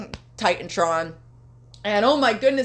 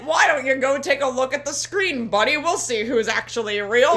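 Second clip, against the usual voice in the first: mock MJF promo; 3 semitones higher than usual. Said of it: "that's how he sounds in my head".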